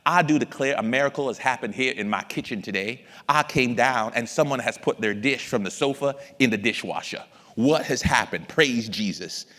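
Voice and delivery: blustery Southern cartoon rooster proclamation; Foghorn Leghorn. Dad announcing a kitchen miracle to his kids, cartoon-chicken bluster. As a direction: declare it grandly as a cartoon chicken. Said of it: "This is my foghorn leghorn chicken imitation".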